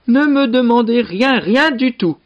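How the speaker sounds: high-pitched, insistent character voice; high, emphatic protest; pleading refusal. Acted. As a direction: fend off questions in a high voice. Brother fends off neighbours' questions.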